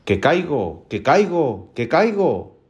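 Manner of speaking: a drawn-out warning cry, lightly acted; mysterious voice. Voice in a haunted house warns Juan, lightly voiced eerie call. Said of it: "empezó una voz que decía".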